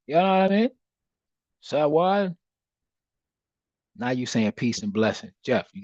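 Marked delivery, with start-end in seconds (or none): 0.1-2.3 high, loud mock Jamaican accent; Sanya. Showing Jeff how to say it, exuberant mock Jamaican accent. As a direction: belt it out in an imitated Jamaican accent. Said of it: "say it like, uh, Sanya used to say it".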